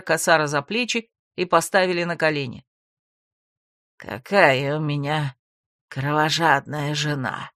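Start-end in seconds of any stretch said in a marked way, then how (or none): 4.0-7.5 low, slow mocking villain voice; smirking. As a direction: smirk at her bloodthirst. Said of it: "усмехнулся он".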